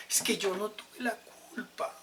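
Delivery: high, whiny "no tuve la culpa"; excuse-making. Retold or imitated. Preacher mocks someone dodging blame, high and whiny. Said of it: "nos zafamos de responsabilidades".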